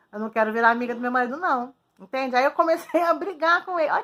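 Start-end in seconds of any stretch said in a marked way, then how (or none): 0.1-1.7 fast, louder "não quero" in mock outrage; indignant refusal. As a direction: rattle it off, appalled. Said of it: "Aí eu falei". (recusa indignada e rápida)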